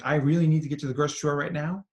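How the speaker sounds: quick, insistent run-through of a need; urgent inner thought. Acted. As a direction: rattle it off as a pressing need.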